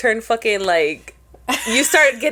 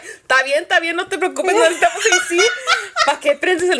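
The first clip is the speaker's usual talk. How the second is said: dad's voice; 7 semitones higher, 3 dB louder, faster than usual. Retold or imitated. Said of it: "And he's like".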